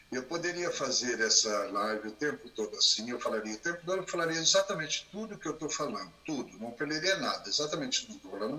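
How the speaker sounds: low, subdued monotone drone. Shown as a demonstration. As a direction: drone the whole thing low and soft. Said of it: "mas eu falaria desse som".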